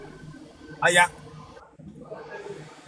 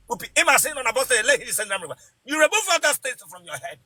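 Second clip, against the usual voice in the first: forceful rebuke; 5 semitones higher, faster than usual. Real, not acted. Prophet rebuking a caller.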